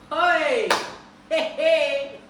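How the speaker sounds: high, loud panicky yelps; alarmed yelps. Retold or imitated. Telling viewers about homework with dad, loud panicked hey hey. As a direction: cry out as if dad just called you. Reacting to dad's homework call.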